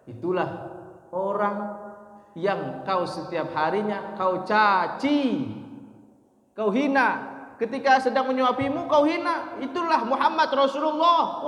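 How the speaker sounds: retold reproach, pitch rising steadily to a climax; building emphatic revelation. Abu Bakar reveals the Prophet to blind beggar, building emphatic revelation.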